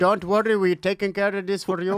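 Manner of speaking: put-on reassuring line in an Indian accent; mock Indian customer service voice. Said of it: "you got a good Indian voice".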